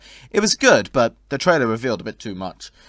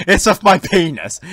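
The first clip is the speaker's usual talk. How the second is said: laughing; 6 semitones higher, 6 dB louder than usual. Real, not acted. Reads a lewd message laughing.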